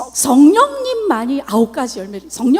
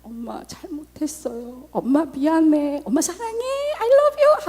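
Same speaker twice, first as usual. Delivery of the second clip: imitating the daughter; slower than usual. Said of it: "그 딸이".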